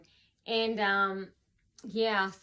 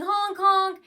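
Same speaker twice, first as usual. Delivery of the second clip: higher, louder mimicked horn; imitated car honk; 8 semitones higher, 7 dB louder than usual. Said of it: "someone honking".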